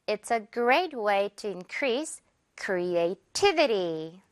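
This will create hundreds of jobs, word by word, very slowly; slow teaching read; very slow model. Shown as a demonstration. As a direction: spell the sentence out slowly for learners. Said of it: "한 번 더".

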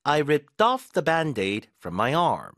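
very slow, word by word, "off" stressed; slow model sentence. Shown as a demonstration. Teacher reading the band-aid example slowly. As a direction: read it slowly for learners to copy. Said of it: "반창고를 떼어냈다 해볼까요".

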